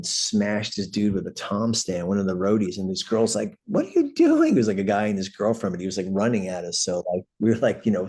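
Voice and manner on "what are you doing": high, loud shriek of alarm; shrieked quote. Retold or imitated. Girl in the brawl shrieking at the roadies. Girl yelling in alley fight.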